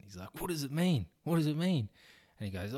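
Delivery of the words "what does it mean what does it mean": high, puzzled repeated question; baffled asking. Acted. Classmate asking what the dare means, baffled. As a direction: pester the friend for the meaning.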